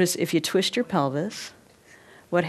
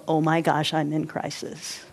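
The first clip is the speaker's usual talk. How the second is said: mock pity party; 2 semitones lower than usual. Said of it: "playing in the pity party".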